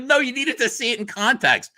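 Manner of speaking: high, laughing, defending the joke; laughing at his wife's reproach; laughing protest. Retold or imitated. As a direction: plead through laughter. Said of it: "Andrea said, "That's not funny".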